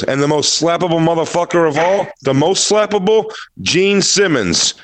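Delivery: high, hyped-up punchline build; mock open-mic announcing; hack comic. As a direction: build to the name, then draw it out. Imitating a bad open-mic comic.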